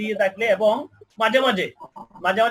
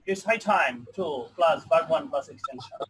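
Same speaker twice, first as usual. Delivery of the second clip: each word spelled out very slowly; measured dictation pace; 3 semitones lower, 3 dB quieter, much slower than usual. Shown as a demonstration. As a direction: read the formula slowly for the class to copy. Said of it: "teacher reads formula slowly".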